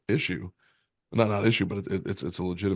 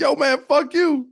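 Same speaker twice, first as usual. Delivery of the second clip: much higher, louder, slower addict voice; crackhead voice; 9 dB louder, slower than usual. Retold or imitated. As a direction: stretch it out as a wired crackhead. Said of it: "crackhead voice redo".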